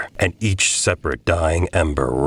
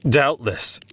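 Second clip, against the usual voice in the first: high doubtless; 7 semitones higher than usual. A narrator's reading. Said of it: "said I".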